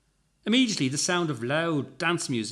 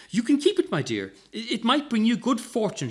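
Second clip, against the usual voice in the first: with a smile; 8 semitones higher, 3 dB louder than usual. A narrator's reading. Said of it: "she answered with a smile".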